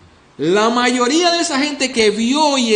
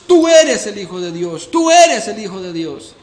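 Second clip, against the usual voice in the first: a mild mock cry of demons, louder; 5 dB louder than usual. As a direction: call it out as the crowd of demons. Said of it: "cada demonio clamando a gritos". (demonios clamando a gritos, en voz más fuerte)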